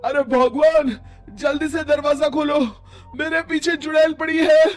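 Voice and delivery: rising frantic plea to open the door; breathless panic at the door; panicked urgent plea. Acted. Fleeing man at his door. (घबराई हुई गुहार)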